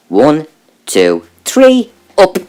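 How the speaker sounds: the count rising into a high squeak; mock strained counting that squeaks high; jumping to a high squeak. Overheard counting through wall.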